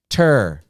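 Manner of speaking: "Ter" alone as a stressed second syllable; isolated syllable. Shown as a demonstration. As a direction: sound out "Ter" as one separate beat. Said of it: "two syllables".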